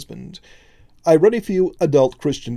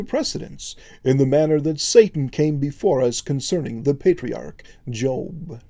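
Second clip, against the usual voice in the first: formal announcement. Acted. Angel formally announces to Jesus.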